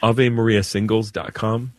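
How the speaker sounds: AVE MARIA SINGLES DOT COM spelled out word by word; repeated clearly. Real, not acted. Priest repeating a website for a caller, said clearly. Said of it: "I can't get, grab it".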